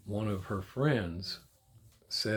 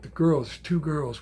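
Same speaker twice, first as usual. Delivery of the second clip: urgent shout; 5 semitones higher, 6 dB louder, slower than usual. Retold or imitated. Desperate grandpa demanding answer.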